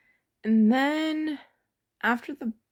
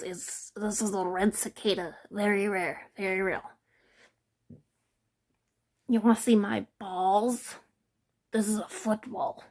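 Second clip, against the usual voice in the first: a lightly voiced eager kid showing off bugs; thirteen-year-old ranger. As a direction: play a kid proudly showing his bug collection. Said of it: "he's like".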